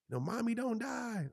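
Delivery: high, slow imitated daughter; unsad child's plea. Daughter in the back seat, imitated plea without sadness. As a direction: mimic a kid's drawn-out plea, not sad. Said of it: "she's not saying it in a sad way".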